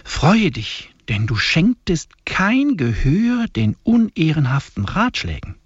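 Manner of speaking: solemn, measured liturgical reading; hymn recitation. Acted. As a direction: intone each line like a prayer. Reads the hymn aloud.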